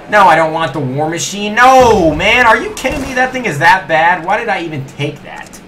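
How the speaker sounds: loud, high protest; exasperated disbelief. Real, not acted. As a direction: wail at a rotten prize, then ease off. Got an unwanted weapon from box.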